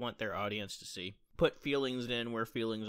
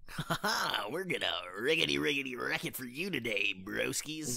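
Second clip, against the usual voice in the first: radio host voice. Acted. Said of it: "Why do you sound like a radio station?".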